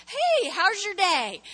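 friendly greeting. Shown as a demonstration. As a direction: greet the waiter with real interest.

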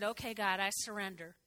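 quiet surrender. Retold or imitated. Praying surrender to God.

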